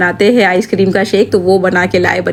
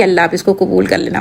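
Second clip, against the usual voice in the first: soft prayer. Retold or imitated. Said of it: "दुआ निकल रही थी कि".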